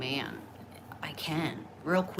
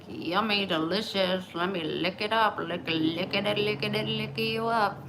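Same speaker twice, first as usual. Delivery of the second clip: mock delighted voice; 4 semitones higher than usual. Voicing her vagina's delight.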